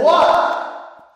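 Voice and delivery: mock-bothered parent calling back; dad calling back. Dad answers his son's call from bed, high questioning callback.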